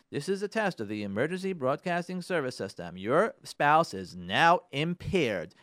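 lightly imitated official test announcement; mock public alert, slowing down heavily at the end; emergency broadcast announcer.

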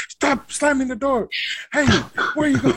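high-pitched imitation of a scolding yell; mock yelling. Cousin in charge of the kids at the event, mock yelling. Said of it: "she was just yelling".

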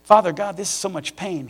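Father God cried out loud and high, then falling back; a pained plea lifted to heaven; anguished cry to God. Retold or imitated. Pleading with God over his father, crying out. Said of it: "I'm talking to God now".

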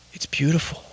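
quiet, breathy-soft awe; awed Trinity. Retold or imitated. Imitating Trinity above the clouds, softly awed. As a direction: whisper it in wonder. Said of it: "Trinity just takes this deep breath like".

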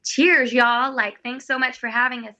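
lightly imitated American audience; American accent. Cruise audience answers her toast, in mildly imitated American accent. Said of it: "they would speak with this American accent".

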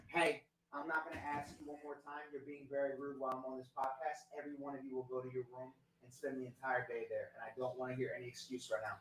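stern telling-off far from the mic; a father laying down the law in the next room. Real, not acted. Father scolding loud kids off-mic.

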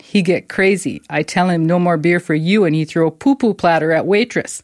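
a mock Chinese restaurant owner's broken English; lightly hammed-up Chinese accent; bad Chinese accent. Podcaster quoting a restaurant owner in a mock Chinese accent. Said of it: "That's the worst accent I've ever heard".

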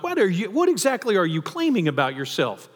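shocked disbelief rising to a high squeak; incredulous question. Retold or imitated. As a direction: voice leaps up high on the final "light". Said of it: "the Jewish audience have been like".

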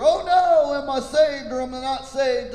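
mock panic.

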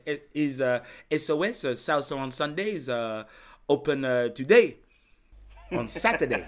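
imitated French caller, halting; lightly put-on French accent. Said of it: "I have to do the accent".

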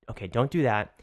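even, measured imitation of a calm boss; calm, diplomatic. Boss calming an angry barista, calm and diplomatic. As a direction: talk someone down diplomatically. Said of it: "Alan is so calm, so diplomatic".

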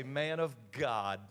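slow, awed, rising to loud thanks; lightly voiced grateful worshipper; grateful praise. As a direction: kneel and bless the preacher. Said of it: "get down on one knee and say".

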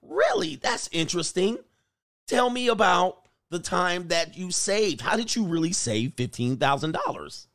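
a hint of nosy friend; mock interested prying. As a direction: play the sweet interrogator who is secretly taking notes. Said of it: "she just putting all the information".

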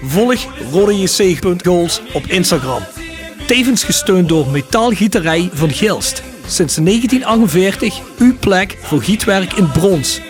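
slow, upbeat sponsor announcement; ad read. Acted. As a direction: read it like a radio ad. Sponsor ad read over music.

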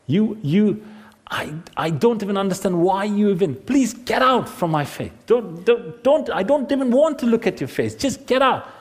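stammering anger climbing in pitch; sputter, then drive them away without shouting; exasperated rejection. Acted. Family member orders the other out, exasperated anger. Acts out a relative's angry rejection.

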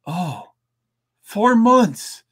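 wailing in loud mock dread; mock despairing wail. Mock dread of 2020 again.

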